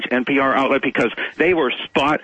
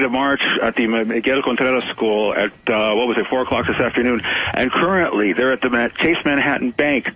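thin landline phone audio; over a landline phone. Real, not acted. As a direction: caller on a landline phone line. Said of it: "I'm on the landline right now".

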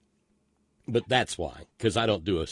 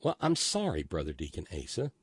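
put-on Crocodile Kincaid accent; 2 semitones lower than usual. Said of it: "Why does he sound like Crocodile Kincaid?".

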